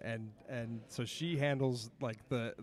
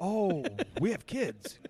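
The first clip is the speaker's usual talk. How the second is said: laughing; 7 semitones higher, 6 dB louder than usual. Retold or imitated. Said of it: "quote after wife".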